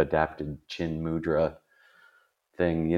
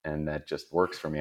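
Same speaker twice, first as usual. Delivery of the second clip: much softer, a private mutter; muttered inner reply; 3 semitones lower, 8 dB quieter than usual. Retold or imitated. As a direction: say it under your breath. I didn't say this to him.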